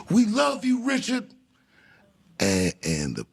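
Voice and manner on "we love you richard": higher mock shout from the back; imitating a fan's cry of love; fan yelling. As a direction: call out to him across the hall. Fan yells from back of room.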